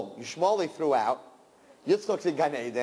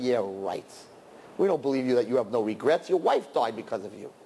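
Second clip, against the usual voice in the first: sceptical crowd; 6 semitones lower than usual. Acted. Acted disbelieving crowd answering back.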